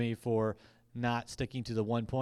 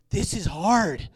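retold mock complaint; 4 semitones higher, 6 dB louder, slower than usual. Retold texts complaining after conference.

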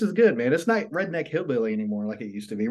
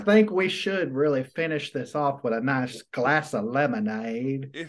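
mock Southern gentleman. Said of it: "why you got Lee sound like".

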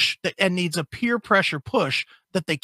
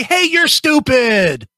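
mock doctor; 5 semitones higher, 7 dB louder, slower than usual. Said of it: "You're afraid the doctor's gonna say".

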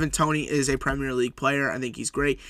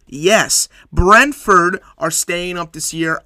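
louder, slowed, celebrating the win; excited cheer; 2 semitones higher, 6 dB louder, slower than usual. Real, not acted. Fan hails Brentford's win to viewers, excited. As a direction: proudly call Brentford staying up.

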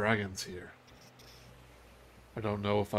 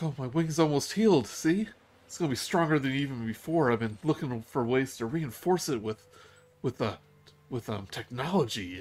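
lightly voiced eager young dragon; 4 semitones higher than usual. GM voices Mila showing healed wing.

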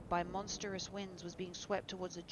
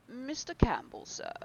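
a raised call from the servant at the door; servant announcing; 7 semitones higher, 8 dB louder than usual. A narrator's reading. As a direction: loudly announce the guest.

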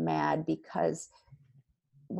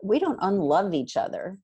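1 loud parent talk; 6 dB louder than usual. Shown as a demonstration. Parent script spoken to kids.

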